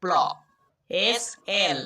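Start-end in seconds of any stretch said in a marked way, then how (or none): 0.0-0.1 প্ল as one joined p-l sound; p running straight into l in প্ল; blended "pl" sound. Shown as a demonstration. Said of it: "প্ল sound উচ্চারণ হবে".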